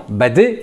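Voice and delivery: "badé" with one light D, as a French speaker would; single D, French accent. Shown as a demonstration. Teacher rejecting the learners' mistake, French single-D badé. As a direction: skip the doubling in "badé", French-style. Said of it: "comme s'il n'y avait qu'un seul D".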